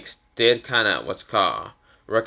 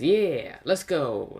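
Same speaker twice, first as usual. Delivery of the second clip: higher, lightly eager character voice; mild cheer; 5 semitones higher, much slower than usual. Acted. Anko gets permission to take Naruto along, mildly excited. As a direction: lift it with a touch of glee.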